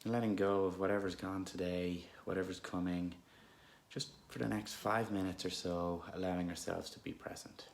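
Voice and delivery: unhurried, calm meditation guidance with long pauses; guided meditation. Real, not acted. Guide leading listeners through an anxious moment, calm meditation voice. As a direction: gently lead listeners inward, leaving space between phrases.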